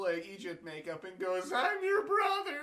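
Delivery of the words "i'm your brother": big reveal. Retold or imitated. Joseph reveals himself.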